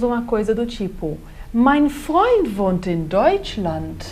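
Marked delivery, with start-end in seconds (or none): 1.5-4.0 rising question tune; question intonation. Shown as a demonstration. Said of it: "a nossa entonação permite com que a gente entenda que isso é uma pergunta". (entonação de pergunta no final)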